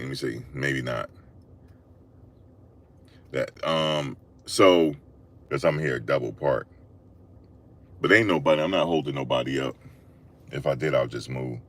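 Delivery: soft, low to self; quiet aside. Real, not acted. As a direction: mumble it to yourself. Aside about double parking now.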